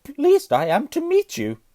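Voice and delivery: high, loud, slow stutter; stammering Quirrell. A narrator's reading. Nervous professor grasps Harry's hand, stammering. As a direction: force each word past the stammer. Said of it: "stammered Professor Quirrell".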